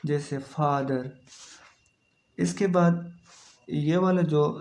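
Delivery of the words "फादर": "फादर" with an open, long aa; long आ sound. Shown as a demonstration. Teacher giving an example, long आ in "फादर". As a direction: draw out the first vowel of "फादर". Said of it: "ये आ sound है".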